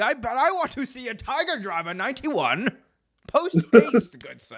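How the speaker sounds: high, hammed-up posh British accent; jokey upper-class British voice; mock posh British. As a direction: demand it like a toff, good sir.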